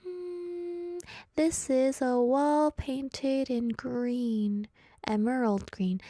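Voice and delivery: slow, drawn-out laboured reading; slow-reader impression. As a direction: act out plodding through a sentence word by word. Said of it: "this other phase where I was like".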